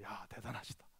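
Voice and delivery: unvoiced hushed whisper; whispered inner thought. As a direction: breathe it to yourself in awe. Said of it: "내가 속으로".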